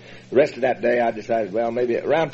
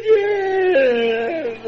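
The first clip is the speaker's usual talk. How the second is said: much higher, emphatic cry of yes; exclaimed yes; 3 dB louder than usual. Retold or imitated. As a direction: burst out with the confession. Retold outburst admitting he is alcoholic.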